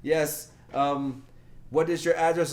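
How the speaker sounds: high, loud scammer impression; the pushy caller demanding details. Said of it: "He's like".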